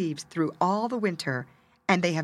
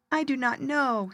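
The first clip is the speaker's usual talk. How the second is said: little bird voice; 7 semitones higher than usual. Acted. Sad little bird answering.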